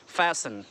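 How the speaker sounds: फैशन as FASS-un, first syllable weighted; stress on फै. Shown as a demonstration. Teacher showing the stress, FASS-un. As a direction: lean on "fa" in फैशन, s not sh. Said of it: "फै को stress करेंगे".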